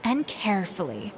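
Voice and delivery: drawn-out, measured words; slow, careful concentration. Acted. Chef demonstrating blending drop by drop, slow and careful. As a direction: stretch the words as you pour with care.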